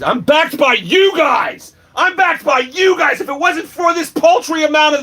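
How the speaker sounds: high, slow shout stressing "you"; passionate shout. Real, not acted. Thanking his backers mid-rant, slow high shout. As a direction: hammer "you" home at the viewers. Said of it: "This is my rant".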